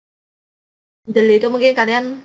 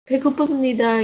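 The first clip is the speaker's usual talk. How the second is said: polite to parents; 4 semitones higher, much faster than usual. Shown as a demonstration. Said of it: "Kalau sama orang tua".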